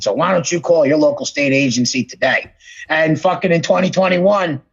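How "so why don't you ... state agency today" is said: lightly put-on spokesman, pitched lower; a hint of an ad read; Tom Hanks. Film star urging viewers to call, lightly imitated. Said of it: "Tom Hanks talking for the government".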